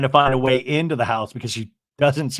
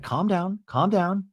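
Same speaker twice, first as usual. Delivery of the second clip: soft, hushed calming; retold soothing; 3 semitones higher, 6 dB quieter, slower than usual. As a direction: imitate a friend settling someone. Acted soothing of upset friend.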